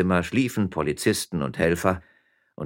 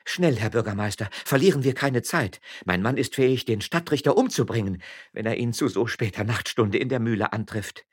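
lightly voiced anxious wife, higher pitch; worried miller's wife; 6 semitones higher than usual. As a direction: urge him to hurry.

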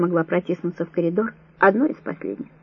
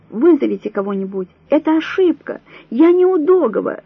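hysterical screaming; 7 semitones higher than usual. A narrator's reading. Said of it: "истерично закричала Вера".

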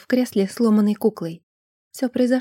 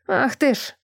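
squeal; 3 semitones higher than usual. Acted. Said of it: "взвизгнул старик".

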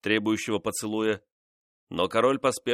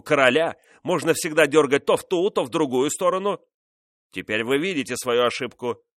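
louder, higher furious royal tirade; angry king; 5 semitones higher, 4 dB louder than usual. Acted. Louis scolding his insolent mistress, angry raised voice. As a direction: berate her, swelling to shouts on the king's name.

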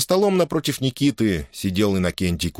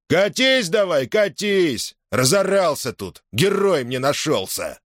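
agitated jeering; 8 semitones higher, slower than usual. A narrator's reading. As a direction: shake a fist after him. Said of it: "возбуждённо грозил".

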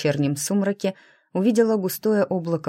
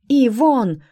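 loud, high desperate cry; desperate shout; 7 semitones higher, 7 dB louder than usual. A narrator's reading. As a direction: yell his name in panic. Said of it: "отчаянно закричала я".

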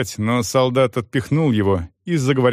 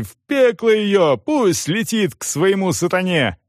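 crowd shouting; 8 semitones higher than usual. A narrator's reading. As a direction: howl her off to Satan. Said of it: "кричали люди".

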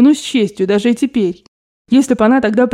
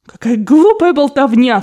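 sharp, higher, louder outburst; exclaimed; 5 semitones higher, 4 dB louder than usual. A narrator's reading. She snaps at him, crying out in scorn. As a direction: cry it out in scorn. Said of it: "вскричала она".

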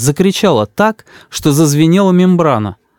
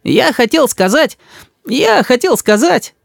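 высокий детский голос, медленно тянет; мальчик тянет время; тянущий ребёнок; 12 semitones higher, slower than usual. A narrator's reading. Рис мнётся. (детский голос, медленно)

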